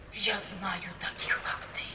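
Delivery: low, slow unvoiced whisper of contempt; bitter whisper. Mother whispering contempt at her daughter, slow whisper. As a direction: breathe it out slowly like an accusation.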